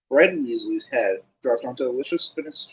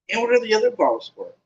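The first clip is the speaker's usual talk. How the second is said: put-on high, keen boyish question; eager Colin; 9 semitones higher, 3 dB louder than usual. A narrator's reading. Boy trotting after Harry, high and keen. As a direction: ask brightly like a young fan.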